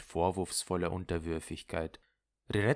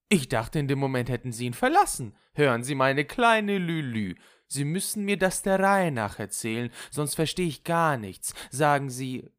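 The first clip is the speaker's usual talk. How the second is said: higher, insistent plea for order; exasperated friend; 7 semitones higher, 4 dB louder than usual. Acted. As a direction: press her to tell it properly. (eindringliche, ungeduldige Freundin)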